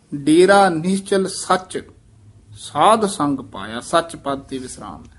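rest clearly at ਸੱਚ before going on; careful pause. Shown as a demonstration. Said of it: "ਇਹ ਵਿਸਰਾਮ ਧਿਆਨ ਨਾਲ ਇਸੇ ਤਰ੍ਹਾਂ ਹੀ ਲਾਉਣਾ ਹੈ".

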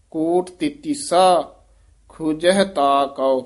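slow, with a short stop after ਕੋਟ ਤੇਤੀਸਾ; brief pause after ਤੇਤੀਸਾ. Shown as a demonstration. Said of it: "ਕੋਟ ਤੇਤੀਸਾ ਪਦ ਤੇ ਯਮਕ ਲੱਗ ਜਾਏਗੀ". (ਤੇਤੀਸਾ ਤੋਂ ਬਾਅਦ ਛੋਟਾ ਠਹਿਰਾਓ)

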